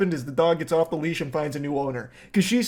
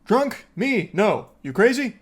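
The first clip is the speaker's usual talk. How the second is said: higher-pitched, imitating a drunk woman acting sober; mock drunk denial; 3 semitones higher than usual. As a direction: play the tipsy caller insisting she's fine, pitched up. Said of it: "putting on a strong show of sobriety".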